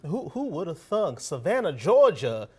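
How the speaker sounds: hammed-up Southern accent for a joke; put-on Southern accent. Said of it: "Ooh, that was a good accent".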